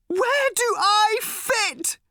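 put-on high, slow, strained girl's scream; a lost teen girl shrieking her question; screaming teenage girl. A narrator's reading. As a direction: scream it out as the desperate daughter. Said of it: "screamed Random suddenly".

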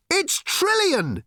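stunned yell; shouted discovery. A narrator's reading. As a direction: shout the name out in shock. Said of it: "shouted Arthur".

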